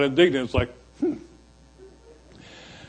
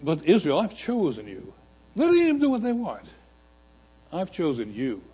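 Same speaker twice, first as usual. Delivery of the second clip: God's quiet reassurance; 7 dB quieter than usual. Acted. God reassures Israel, softly.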